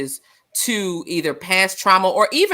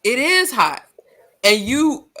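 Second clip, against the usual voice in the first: insistent aunt; 6 semitones higher, 3 dB louder than usual. Retold or imitated. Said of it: "And I'm like".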